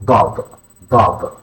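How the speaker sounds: DAD with a heavy, dark D; emphatic Arabic D. Shown as a demonstration. Teacher showing learners the letter, DAD with emphatic D. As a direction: darken the D and vowel of DAD. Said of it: "an emphatic D, unique to Arabic".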